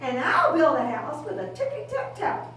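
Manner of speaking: quick light piglet voice; bouncy, tapping rhythm; dancing pig. Acted. Second pig boasts while dancing a jig. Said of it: "said the second little pig".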